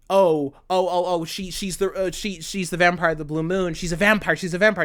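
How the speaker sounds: stammering, dawning mock alarm; acted startled discovery; alarmed realisation. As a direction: stumble over the words as it sinks in. Acting out Vanitas's alarmed realisation.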